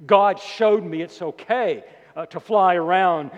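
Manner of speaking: loud mock boast; false teacher's claim. Preacher mimicking a jet-flying teacher, loud mock boast. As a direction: boldly voice a self-justifying preacher. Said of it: "they might say".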